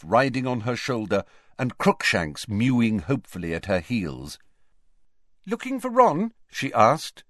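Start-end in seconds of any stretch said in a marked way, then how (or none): 5.5-6.3 smirking. A narrator's reading.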